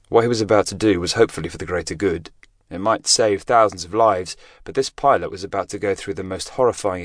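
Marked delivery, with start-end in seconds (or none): none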